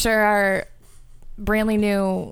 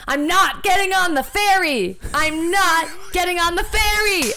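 higher, a bit louder mock caller; imitating the caller; 8 semitones higher, 4 dB louder than usual. Retelling the guy's strange phone call in his voice. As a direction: repeat his odd line like a confused late-night caller. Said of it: "he was like".

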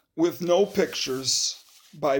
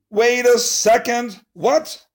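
surprised; 3 semitones higher, 3 dB louder than usual. Acted. Reader protests the book.

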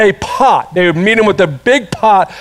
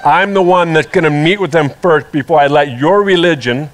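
Jesus' voice; 7 semitones lower than usual. Retold or imitated. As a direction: lower and steady, declaring who he is. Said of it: "And Jesus is like".

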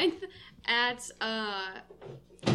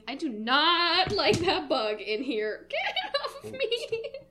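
shuddering revulsion; 10 semitones higher, 3 dB louder than usual. Real, not acted. Bug lands on her mid-plug.

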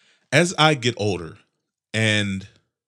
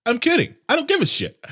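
much higher, giggling through it; laughing; 13 semitones higher, 5 dB louder than usual. Real, not acted. Host drops his fake Oscar hype, giggling high and loud.

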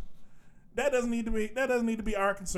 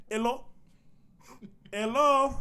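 fake phone answer; 4 semitones higher, slower than usual. Shown as a demonstration. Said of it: "the voice they hear when I pick up".

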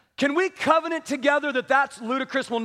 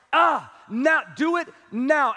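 urgent command; slower than usual. Retold or imitated. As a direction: urge them to act at once. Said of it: "it was like".

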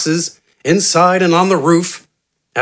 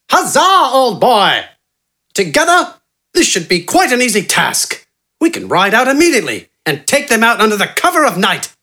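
excited yell; 7 semitones higher than usual. A narrator's reading. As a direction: burst out with gleeful triumph.

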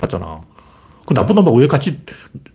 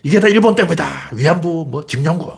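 mock blaming; 3 semitones higher than usual. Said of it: "한국이 제일 심해".

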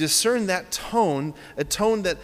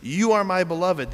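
louder, slightly lifted declaration; declarative God; 3 semitones higher, 5 dB louder than usual. Acted. Preacher quoting God in the scriptures, declarative. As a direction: proclaim it as an uplifting affirmation. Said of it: "Listen how he speaks in the scriptures".

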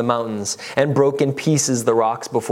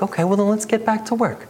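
brisk God; 8 semitones higher than usual. Acted. God voiced moving on.

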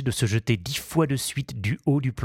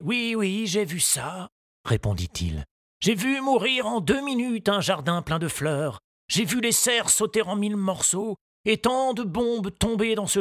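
grieving gardener; 11 semitones higher than usual. A narrator's reading. Moustache recalls his ruined garden, sorrowful. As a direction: let the loss weigh.

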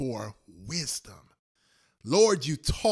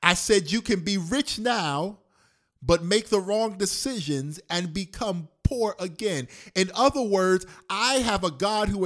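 "rich" and "poor again" pressed out louder; preached louder; 3 semitones higher, 5 dB louder than usual. Acted. Preacher repeating the warning louder to the church. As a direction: say it again with more force. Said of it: "I'm gonna say it again".

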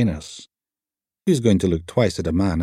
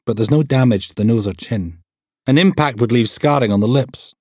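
lightly voiced APT explaining injuries; a hint of a clinical expert voice; brisk pathologist; 3 semitones higher than usual. Pathologist's assistant examines the body.

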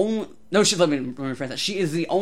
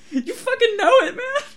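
excited shout; 6 dB louder than usual. Retold or imitated. Excited reply to Joker greeting.

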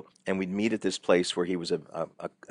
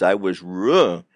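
Fonzie stammer; 5 dB louder, slower than usual. Retold or imitated. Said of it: "could not say the word".

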